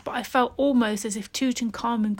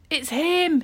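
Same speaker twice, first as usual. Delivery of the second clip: higher, louder cry of terror; frightened shout; 7 semitones higher, 4 dB louder than usual. Acted. Salim sees the light in the tomb, terrified shout. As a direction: yell it, eyes wide with terror. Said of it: "he shouted".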